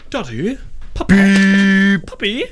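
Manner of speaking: high, small calls with one loud one; childlike calling. Acted. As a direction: call out like a lost little kid.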